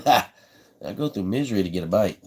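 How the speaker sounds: repeated through a real laugh. Real, not acted. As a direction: chuckle as you say it again. Repeats line, then laughs.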